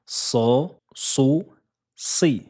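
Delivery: so, so, si with a heavy emphatic S and a faint hiss; teacher demonstrating the emphatic sad syllables. Shown as a demonstration. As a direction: puff out the back of the tongue for so. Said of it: "il faut ressortir les lèvres".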